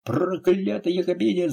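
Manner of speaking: high-pitched outraged cry, understated volume; lightly acted furious wail; yelled curse. A narrator's reading. A thug rebuffed by the cavalier, yelling a curse. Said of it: "завопил Беккао".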